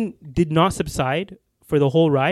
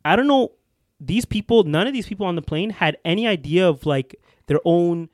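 worked-up complaint; big mad. Real, not acted. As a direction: vent real irritation about other people. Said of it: "this is how you know the speaker was big mad".

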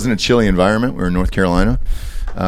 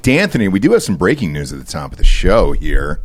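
normal talking voice

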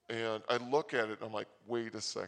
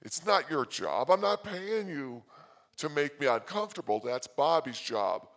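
mock scolding; 2 semitones higher, 7 dB louder than usual. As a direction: scold him with mock outrage. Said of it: "And I'm like".

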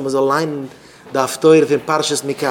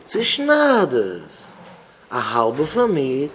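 mock cruel scream; slower than usual. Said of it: "Und die andere Frau schreit".

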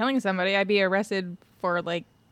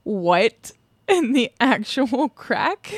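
incredulous; much slower than usual. Real, not acted. Reacting to the bizarre footage.

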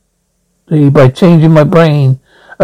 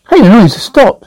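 surprised notice; 6 semitones higher than usual. Acted. Zaphod noticing the silence.

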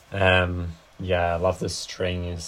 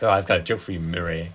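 imitating his Murray; 4 dB louder than usual. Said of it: "he pronounces it like".

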